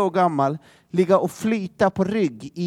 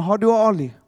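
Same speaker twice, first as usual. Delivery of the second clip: mock frantic calling; 2 semitones higher than usual. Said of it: "ropar de till barnen".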